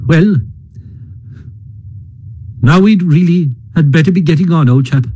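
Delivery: breezy, offhand Rat, lightly voiced and quick; carelessly. Rat cheerfully moving Mole along, offhand and quick. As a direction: toss it off as if nothing happened. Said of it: "remarking carelessly".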